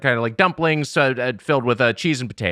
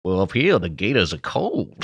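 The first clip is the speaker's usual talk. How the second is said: mock Cajun accent; 6 semitones lower than usual. Joking about gators up north, in a mild mock Cajun accent. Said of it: "I don't know how to do the accent".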